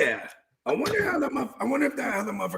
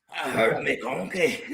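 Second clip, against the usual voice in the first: put-on Scottish accent; 4 semitones lower, slower than usual. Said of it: "Oh, I got hurt. What happened, mate?".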